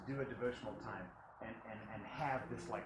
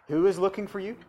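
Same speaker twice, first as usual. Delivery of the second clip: excited question; 7 semitones higher, 14 dB louder than usual. Acted. Acted question of the disciples.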